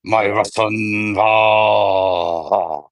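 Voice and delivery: slow mock Russian accent sliding toward German; retry the Russian voice, v for b in back; Russian accent attempt. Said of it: "Sounds a little German".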